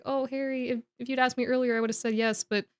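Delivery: understated regret, softening toward the end; sad. Retold or imitated. Cho turning Harry down for the ball, gently sad. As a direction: let it sink into a quiet apology. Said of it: "she's, like, legitimately sad".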